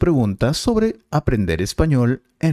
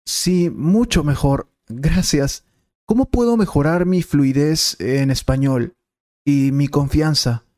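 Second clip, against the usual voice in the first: higher, eager student asking the teacher; 4 semitones higher than usual. Acted. Student thanks the teacher and asks, in a higher eager voice. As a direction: play the keen student, pitched up.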